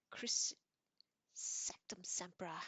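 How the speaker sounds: loud cry, spell dragged out slowly; bellowing. Acted. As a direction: bellow the curse from the floor. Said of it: "bellowed Harry from the floor".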